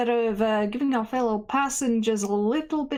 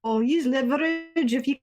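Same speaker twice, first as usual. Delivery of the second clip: formal, measured conductor announcement voice; train announcement. Acted. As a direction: address all passengers over the intercom. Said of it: "he's gonna make a train announcement".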